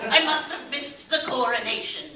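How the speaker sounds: lightly put-on subject addressing royalty; hint of mock-noble formality; mock courtly apology. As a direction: grovel to her as if she were nobility.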